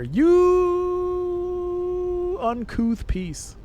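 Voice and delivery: squeaky high then slow, prim insult; Regency insult. Pretend. Streamer insults chatter as a scandalized Regency lady. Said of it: "as they say in Regency Solitaire".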